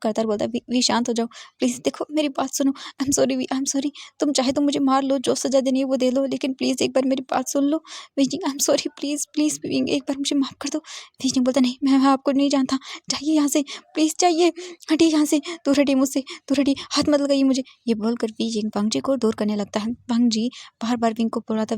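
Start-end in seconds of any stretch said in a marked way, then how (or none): 0.5-10.8 higher, pleading sorry; tearful apology. Acted. Wang Ji pleads for forgiveness. 11.6-17.6 high, loud cry to get away; panicked shout. Acted. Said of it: "वी जिंग जोर से चिल्ला रहा था".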